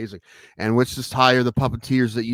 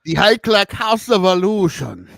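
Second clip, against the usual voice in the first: grand announcer voice; 8 semitones higher, 8 dB louder than usual. Acted. Announcing magician house name.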